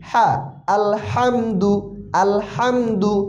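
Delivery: আলহামদু with its হা pushed from inside the throat; pressed throat sound. Shown as a demonstration. Teacher giving an example word, throat-pressed হা in আলহামদু. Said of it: "গলার ভিতর থেকে চাপ দিয়ে".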